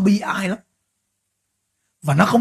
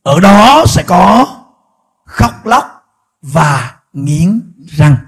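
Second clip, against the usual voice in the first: very slow, loud, weighty words; solemn, drawn out scripture quote; 9 dB louder, much slower than usual. Shown as a demonstration. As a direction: stretch out "nghiến răng" ominously. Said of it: "Chúa Giêsu nói tiếp".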